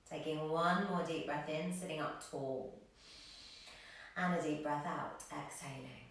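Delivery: calm yoga teacher leading breathwork; guided meditation. Acted. Leads calming breathing practice.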